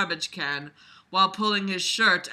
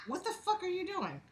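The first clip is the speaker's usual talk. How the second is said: high breathy mock voice; 12 semitones higher, 9 dB quieter than usual. Mock narrator reaction.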